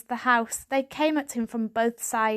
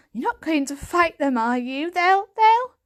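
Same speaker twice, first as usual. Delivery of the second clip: rising panic, breaking off louder; frightened; 7 semitones higher, 5 dB louder than usual. A narrator's reading. Grandson fearing grandfather's fight, panicked and stammering. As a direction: fear builds until the words fail.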